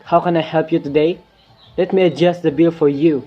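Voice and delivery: put-on bright call-centre Canadian accent. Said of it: "trained to speak in Canadian accent".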